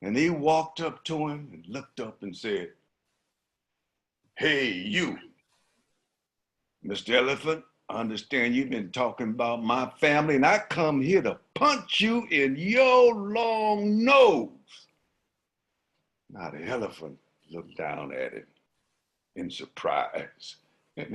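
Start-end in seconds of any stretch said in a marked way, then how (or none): 4.3-14.9 building to a loud high shout on nose; lion picking a fight; challenging lion. Acted. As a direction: square up and threaten.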